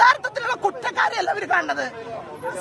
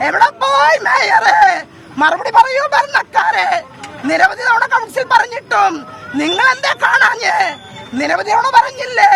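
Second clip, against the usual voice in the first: angry shouting. Real, not acted. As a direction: shout accusations at the rulers. Protester shouting at officials.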